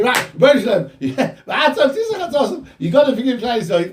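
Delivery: high, animated demand for forgiveness; excited, forceful retold plea; changed, insistent tone. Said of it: "he then changed his tone".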